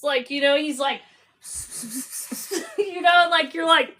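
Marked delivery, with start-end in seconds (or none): 1.5-2.7 imitated whispering. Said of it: "as soon as he whispered".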